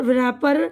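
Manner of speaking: "व्रैपर" with a V before the R; silent W sounded. Shown as a demonstration. Teacher repeating the wrong reading, W sounded. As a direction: say "व्रैपर" as vrapper. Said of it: "तो ये गलत है".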